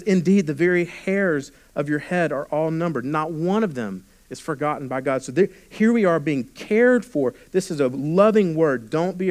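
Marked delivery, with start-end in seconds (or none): 0.0-5.2 warmly. Retold or imitated. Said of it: "Jesus is saying this warmly".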